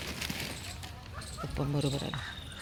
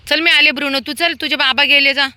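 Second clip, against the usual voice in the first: much higher, louder urging call; calling the dog; 11 semitones higher, 10 dB louder than usual. Real, not acted. Woman urges Bruno to follow his owner, high loud call. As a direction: hurry the dog along.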